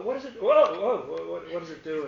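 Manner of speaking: a hint of a little kid marvelling; child's wonder. Preacher lightly voicing a curious child playing, mock amazed.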